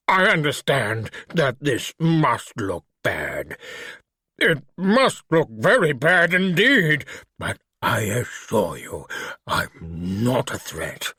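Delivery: put-on slow, careful refined British accent; lightly voiced refined British creature. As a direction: speak like a polite English gentleman in a monster's body. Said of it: "with a refined British accent".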